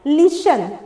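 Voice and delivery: "लिसन" with no t in the middle; silent T. Shown as a demonstration. Teacher showing learners the pronunciation, "लिसन" with silent T. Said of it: "इसका जो pronunciation हम लोग बोले".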